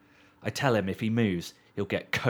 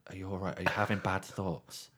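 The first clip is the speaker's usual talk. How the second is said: soft, caring policeman, much quieter; gentle concern; 2 semitones lower, 4 dB quieter than usual. Retold or imitated. Storyteller voicing the kind policeman asking him, softly concerned. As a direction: ask it gently like a worried friend. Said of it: "he's a sweet, sweet policeman".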